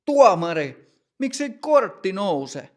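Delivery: loud demanding shout; shouting at the referee. Acted. Matti yelling at the referee for a card. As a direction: yell for the card. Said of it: "ja huutaa".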